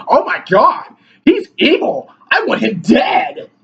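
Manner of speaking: high, whiny crying parody; mock hysterical lib. Vlogger mocks a leftist reacting to his video, wailing. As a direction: wail it like an outraged caricature. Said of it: "they're gonna be like".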